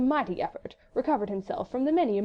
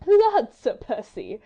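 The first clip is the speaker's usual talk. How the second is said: laughing; 4 semitones higher, 8 dB louder, much slower than usual. A narrator's reading. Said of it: "laughed Lady Blakeney".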